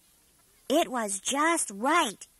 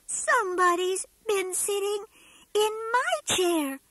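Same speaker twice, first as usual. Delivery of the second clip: squeaked; 4 semitones higher, faster than usual. Acted. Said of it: "squeaked the wee tiny bear".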